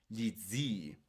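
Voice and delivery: "zii" with a lengthened i, ZIII; long double I. Shown as a demonstration. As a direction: hold the double i of "zii" a little longer. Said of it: "Se tiene que pronunciar un poco más largo". ("zii" con doble i alargada)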